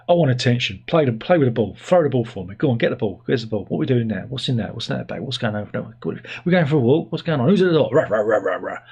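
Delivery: hint of an attention-mad dog, rattled off; excitable dog chatter building into mock barks; lightly voiced needy dog. Dog pestering owner for ball and walk, lightly voiced excitable chatter.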